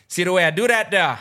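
smooth club guy voice. Pretend. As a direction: ham up a slick dance-floor player, laughing. S1 acts a dancing club guy.

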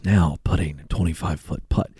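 low, hushed golf announcer; soft, deep tournament hush; golf commentator. Retold or imitated. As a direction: murmur it as if beside the green. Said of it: "The guy talks like this".

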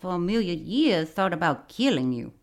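imitating a Cajun dad; Cajun accent. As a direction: say it like a Cajun father. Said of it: "I think I just nailed it".

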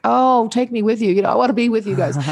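put-on a touch of childlike eagerness, quick; eager plea. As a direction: ask to go along with longing. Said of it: "And I was like".

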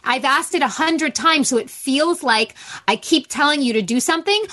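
mildly exasperated parent repeating themselves; worked-up, insistent retelling of a scolding; retold frustration. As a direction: press each point, fed up but contained. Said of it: "I'm getting really frustrated".

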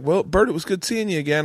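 high Southern mother-in-law goodbye; Southern accent. Retold or imitated. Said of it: "have a Southern accent".

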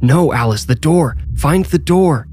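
urgent cry rising high in pitch; screamed command. A narrator's reading. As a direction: yell it in panic to send her to the door. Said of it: "Michael screamed".

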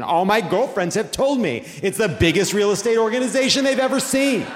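combative boast, rising high at the end; Eric Trump. Acted. Eric Trump brags to the prosecutor, combative. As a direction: insist defensively, pitch climbing. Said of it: "Eric Trump ultimately became combative".

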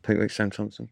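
soft, discreet name-drop; on the sly. Retold or imitated. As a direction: slip the names in quietly. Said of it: "just do it on the slide".

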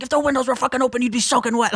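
high-pitched mock exasperation; exasperated retort. Dad answering grandma in the car, exasperated. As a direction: imitate a fed-up dad, voice way up.

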